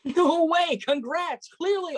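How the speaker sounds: high, loud squeal of no way; thrilled disbelief. Acted. Hearing her friend became editor, a thrilled high shout. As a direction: burst out with joy for your friend.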